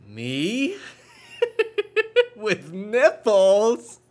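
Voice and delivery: put-on high, slow, teasing girl voice; coy, giggly character voice; high girly voice. Voicing a game character's lines.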